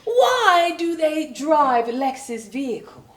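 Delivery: high, loud British voice leaning on "black"; British boss stressing black. Retold or imitated. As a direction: hit "black" like a disease, English boss. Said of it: "put an emphasis on it".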